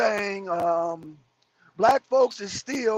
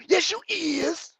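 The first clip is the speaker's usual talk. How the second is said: a touch higher, slow mockery; mock the phrase; 5 semitones higher, slower than usual. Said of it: "pet peeve".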